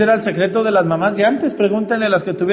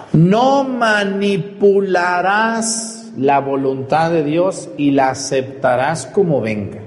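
solemn proclamation; slower than usual. Shown as a demonstration. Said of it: "yo pudiera traducir ese mandamiento".

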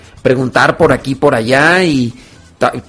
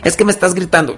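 higher-pitched, wounded protest without shouting; mock aggrieved complaint; 4 semitones higher, faster than usual. Corrected person accuses the other of shouting, aggrieved. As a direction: imitate someone feeling got at.

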